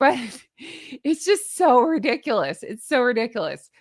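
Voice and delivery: talking while laughing throughout. Reacting to dried flour sprinkles in the middle of the night, laughing while talking. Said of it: "I can't stop laughing about how ridiculous this is".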